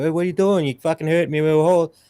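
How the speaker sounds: protester yelling at police, pitched high; indignant high yelp at the cops; mock protester. Retelling a protester shouting at police, high and indignant.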